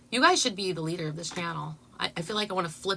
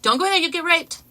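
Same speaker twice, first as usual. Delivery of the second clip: quoting her; 9 semitones higher, 7 dB louder than usual. Retold or imitated. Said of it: "If she only said that".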